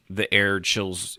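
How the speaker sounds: slow, eerie scene-setting; slow spooky narration. Shown as a demonstration. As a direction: draw out the chill in the air. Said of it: "give the impression without flat out saying".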